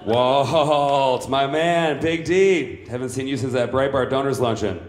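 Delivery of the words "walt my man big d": loud, higher hearty hello with a laugh; boisterous glad-to-see-you call; buddy greeting. Acted. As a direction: hail him like an old pal across the room. Warmly hailing an old buddy.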